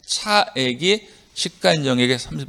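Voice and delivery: "차액이" set apart, then "시가 인정액의 삼십" as one unit; interpretive phrased reading. Shown as a demonstration. Teacher modelling the repeated subject for students, phrased reading. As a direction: say "차액이" clearly as a fresh start of the condition. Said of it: "이렇게 읽으시라고".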